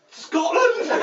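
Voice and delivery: high, loud shouted reply; calling back. Acted. Passenger answering a stranger on a passing ferry, calling back. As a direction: holler the answer across the water.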